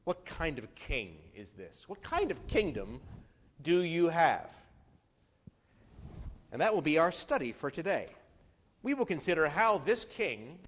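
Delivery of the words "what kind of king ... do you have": Pilate mocking the prisoner lightly; mild sarcasm. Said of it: "with some sarcasm in his voice".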